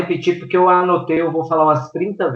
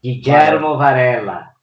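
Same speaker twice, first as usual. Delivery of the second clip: put-on Italian accent; slower than usual. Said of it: "O sotaque italiano aí foi lindo".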